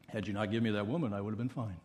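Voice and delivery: Adam blaming God, low and hurried; sulky Adam. Acted. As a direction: rush out the excuse under the breath.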